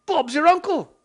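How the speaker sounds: high, loud, put-on quip; silly victory voice. Maker gloating to viewers, silly high voice. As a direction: chirp it high in a put-on cartoon voice. Gleeful catchphrase after success.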